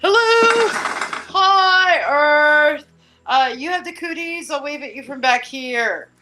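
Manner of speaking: high, loud, squeaky call from far away; a squeaky distant moon; tiny far-off moon. Pretend. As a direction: shout up high across the distance. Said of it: "it's like".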